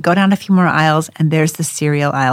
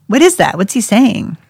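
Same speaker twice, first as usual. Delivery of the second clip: higher, louder baffled question; puzzled questioning; 5 semitones higher, 4 dB louder than usual. Retold or imitated. Mother asking the translator about her son's word, perplexed. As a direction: press for an answer, mystified.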